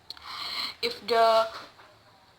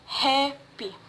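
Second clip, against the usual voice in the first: happy with HAP stressed and PY falling; stress on first syllable; 3 semitones higher than usual. Shown as a demonstration. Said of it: "word stress in the first syllables".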